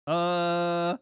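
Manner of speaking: stammering, fumbling denial full of uhs; mock flustered denial. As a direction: play caught out and stalling. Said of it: "That's how he sounds".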